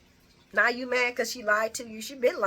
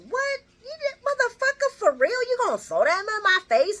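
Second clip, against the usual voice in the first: mock shriek, much higher and louder; outraged disbelief; 6 dB louder than usual. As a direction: blurt it out in shocked outrage. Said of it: "And she's like".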